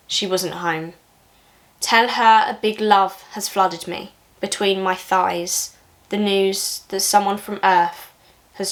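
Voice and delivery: measured recital, slowing towards the end; restrained, even poem voice with pauses; poetry reading. Acted. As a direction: read it as verse, letting each line fall. Reads a second poem aloud.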